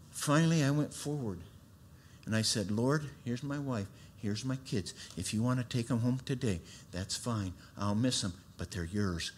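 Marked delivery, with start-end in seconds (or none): 2.7-9.3 quiet surrender. Retold or imitated. Surrender prayer retold at altar.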